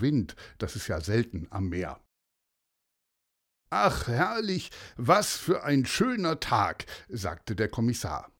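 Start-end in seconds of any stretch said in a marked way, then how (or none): 3.7-6.8 lightly voiced contented sigh of delight, higher; delighted commissioner. A narrator's reading. Commissioner enjoying a fine day by the sea, delighted. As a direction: savour the lovely day, mildly delighted.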